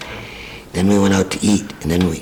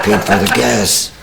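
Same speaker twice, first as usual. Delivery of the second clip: laughing; 3 semitones higher, 3 dB louder than usual. Real, not acted. Laughing at own story.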